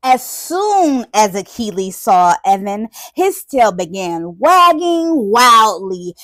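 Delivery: expressive read-aloud with stretched key words; animated storybook narration. Acted. Teacher reads puppy meeting the boy, animated storybook narration. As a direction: relish the building anticipation for children. Reads picture book to children.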